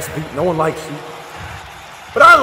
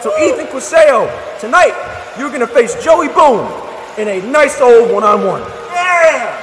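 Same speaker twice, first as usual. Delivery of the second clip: hype announcer shout; 4 semitones higher than usual. Acted. Announcing the match to crowd.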